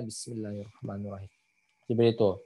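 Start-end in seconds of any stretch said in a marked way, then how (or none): 0.1-1.3 soft, lowered recitation with audible hiss; suara kecil. Shown as a demonstration. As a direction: recite quietly, let the s hiss through. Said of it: "kecil misalkan suaranya". (suara kecil dengan desis terdengar)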